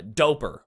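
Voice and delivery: "doper" stressed on the first syllable; trochaic stress. Shown as a demonstration. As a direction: punch "dope", let the end of "doper" fall away. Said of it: "That's trochaic".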